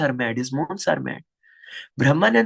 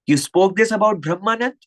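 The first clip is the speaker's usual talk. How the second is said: higher, forceful accusing question; acted furious demand; 4 semitones higher, 4 dB louder than usual. Guru confronts critics about a disciple, acted furious demand. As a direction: confront them as the angered guru.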